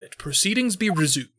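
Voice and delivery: measured, formal questioning; formal judge. Acted. Judge to witness in court, formal.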